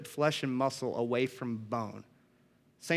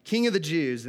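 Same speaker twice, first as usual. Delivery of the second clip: mildly mocking hail, a bit louder; 2 semitones higher, 4 dB louder than usual. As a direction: proclaim it as a mock salute. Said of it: "they mocked him, saying".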